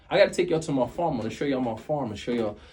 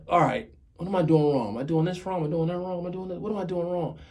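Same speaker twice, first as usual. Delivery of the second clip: anxious self-questioning; 4 semitones higher, faster than usual. Retold or imitated. Acts out anxious self-audit.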